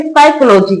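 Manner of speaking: साइकोलॉजी starting on an S sound; silent P in psychology. Shown as a demonstration. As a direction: say साइकोलॉजी with no P at the front. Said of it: "पी silent रहता है".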